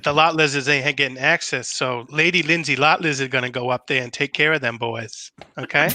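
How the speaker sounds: a hint of a campy Southern politician; Lindsey Graham voice. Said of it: "request for the Lindsey Graham voice".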